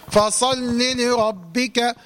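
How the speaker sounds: فصل لربك drawn out with an added vowel; wrong extra vowel. Shown as a demonstration. Teacher demonstrating the wrong reading. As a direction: show the error in فصل لربك slowly. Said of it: "خطأ".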